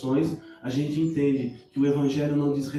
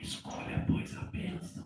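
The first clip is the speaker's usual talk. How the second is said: hushed, barely voiced, very soft whisper; 5 semitones higher, 12 dB quieter than usual. Quoting how he whispers to people, a soft whisper. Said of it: "E aí Ele sussurra assim, ó".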